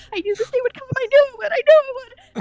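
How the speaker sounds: high, shrill, rushed, frantic panicked scream. She bursts inside, screaming as she flees from the group; screaming in panic. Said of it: "screams and rushes inside".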